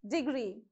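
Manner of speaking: deGREE, weight on the end of Degree; stress on gree. Shown as a demonstration. Teacher showing correct pronunciation of Degree, stress on gree. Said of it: "So on gree, you have to put more stress".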